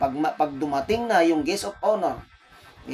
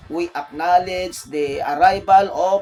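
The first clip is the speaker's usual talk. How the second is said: mock MC announcement; 4 dB louder, slower than usual. Shown as a demonstration. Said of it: "bibigkasin mo ngayon yung pangalan niya".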